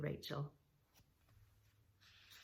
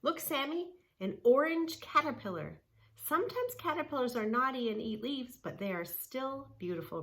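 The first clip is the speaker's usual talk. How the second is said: excited Rachel; 6 semitones higher than usual. Acted. Rachel shows Sammy a caterpillar, high and excited. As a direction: point it out with delight.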